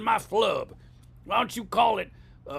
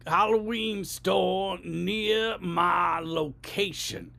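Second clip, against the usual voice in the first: exasperated voice command; much slower than usual. Shown as a demonstration. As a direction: lose patience with the map robot. Third try shouting at phone.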